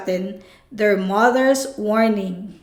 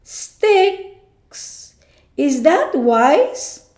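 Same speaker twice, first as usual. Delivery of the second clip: doubtful question; 5 semitones higher, much slower than usual. Acted. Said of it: "asked Percy".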